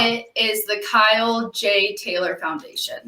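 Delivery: measured, careful naming; slow and clear. Shown as a demonstration. Intern repeats nonprofit's name for listeners, slowly. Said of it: "So say it slowly so we know".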